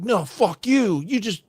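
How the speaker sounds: high, whiny mock protest from the fooled friend; high mocking voice of a friend who won't listen; mock deluded friend. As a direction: play the friend in denial, shrill and indignant. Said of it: "it's like you're on a date with a girl and we're like".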